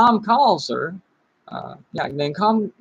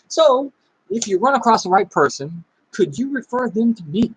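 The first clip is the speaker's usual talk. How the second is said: reading a script; 2 semitones higher than usual. Shown as a demonstration. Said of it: "Jeff Gamble's three-way text favor script".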